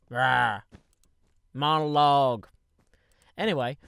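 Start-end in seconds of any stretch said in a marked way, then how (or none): 0.1-2.5 loud, strained "Monologue."; exasperated shout. Real, not acted. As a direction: protest at the interruption. Glitch interrupts his monologue.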